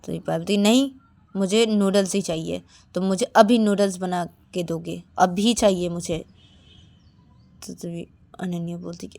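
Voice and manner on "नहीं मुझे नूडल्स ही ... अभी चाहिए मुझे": put-on bossy girl. Demanding child Payal wants noodles.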